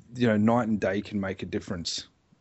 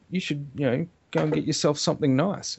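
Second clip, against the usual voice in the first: casual, higher-pitched sweet talk; smooth generous offer; 6 semitones higher than usual. Retold or imitated. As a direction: offer it lightly, like a little treat. Womanizer handing over cash.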